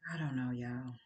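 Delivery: whispered, resigned aside; breathy whisper of disbelief. Real, not acted. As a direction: drop to a whisper, giving up on it. Weary aside to the audience.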